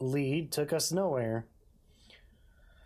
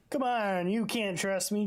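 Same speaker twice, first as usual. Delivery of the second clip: mock pushy detective; 5 semitones higher than usual. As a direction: tease it like a bad cop. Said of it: "Imagine if you said that".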